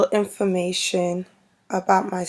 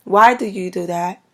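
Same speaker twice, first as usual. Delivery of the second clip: louder mock Canadian accent; Canadian cousin; 6 dB louder than usual. Vlogger imitating cousin from Canada, light Canadian accent. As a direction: quote a Canadian cousin's question with emphasis. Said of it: "my cousin used to say".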